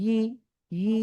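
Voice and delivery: ই as yi, mid-tongue pressed up; tongue-on-palate yi. Shown as a demonstration. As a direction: glide into ই from the palate. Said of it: "সাউন্ডটা বের করতে এরকম হচ্ছে".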